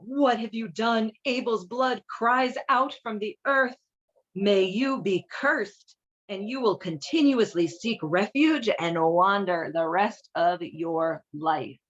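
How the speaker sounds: slow, lightly voiced God; deliberate slow pronouncement with only a touch of crying out; a hint of a solemn God, slowed right down; mild cry of the Lord. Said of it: "The Lord cried out".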